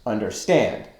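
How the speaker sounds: understand with the weight on "stand"; stress on final syllable. Shown as a demonstration. Teacher demonstrates an anapestic word, final syllable stressed. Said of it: "accent on the final syllable".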